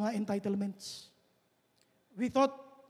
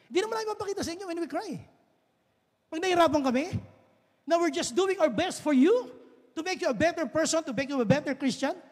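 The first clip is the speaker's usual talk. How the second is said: impassioned plea; 6 semitones higher than usual. Real, not acted. Pastor pleading with congregation.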